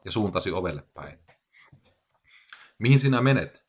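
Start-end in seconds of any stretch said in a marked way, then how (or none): 2.8-3.6 higher, louder puzzled question; puzzled surprise. A narrator's reading. Narrator asks the departing bartender where he is going, in surprise. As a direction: ask it with mild astonishment. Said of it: "kysyin ihmeissäni".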